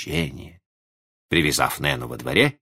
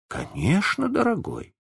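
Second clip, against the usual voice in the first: tender reassurance; 13 semitones higher than usual. A narrator's reading. Mother reassures her little son.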